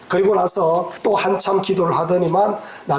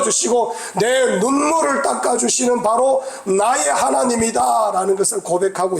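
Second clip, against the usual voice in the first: rising fervent preaching; 4 semitones higher than usual. Real, not acted. Preacher builds fervent climax.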